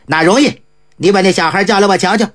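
lightly voiced eccentric monk greeting the host. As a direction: drop into the monk's relaxed voice. Ji Gong voiced by narrator.

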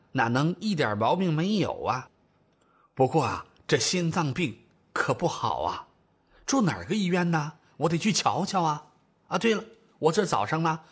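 lightly voiced folksy older mother; older mother, chatty. Mother plans to visit sick in-law, mildly fussy. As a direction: think aloud like a practical mum.

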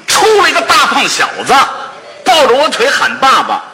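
indignant, emphatic complaint with bursts of volume; outraged. Acted. Husband confronts friend over the child calling him dad, outraged. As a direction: throw the scandal in his face.

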